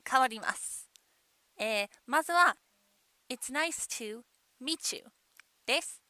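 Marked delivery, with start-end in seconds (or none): 3.3-5.0 "meet you" joined as mee-chu, softly; linked meet you. Shown as a demonstration. Teacher showing first pronunciation variant, "meet you" linked as mee-chu. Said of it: "一緒に発音してください".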